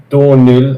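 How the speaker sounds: "Donil" said as DOUGH-nil, like dough and nil; "Donil": dough as in bread, nil as in the score; name pronunciation. Shown as a demonstration. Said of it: "as in dough that you make bread with".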